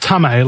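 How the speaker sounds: "Tame" said in two syllables, like "tummy"; pronunciation of Tame. Shown as a demonstration. Guest explaining a Māori name to the host, "Tame" pronounced TAH-may. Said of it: "it's pronounced Tame".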